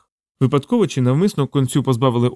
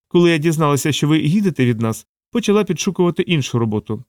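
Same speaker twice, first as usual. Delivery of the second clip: higher-pitched character voice for the assistant; Savitri, candid assistant; 4 semitones higher than usual. Acted. Assistant telling her boss she looked for other work, candid higher voice. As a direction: lift the pitch, explaining herself.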